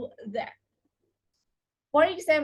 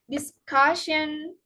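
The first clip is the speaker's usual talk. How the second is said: disCUSsion, slow, weight on CUS; stress before suffix; slower than usual. Shown as a demonstration. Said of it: "the syllable just before the suffix".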